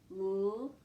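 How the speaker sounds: "Left" broken into l, eh, ft; sounded out. Shown as a demonstration. Teacher isolating the eh sound, "Left" sounded out slowly. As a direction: sound out "Left" with long gaps between sounds. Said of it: "That's the eh sound".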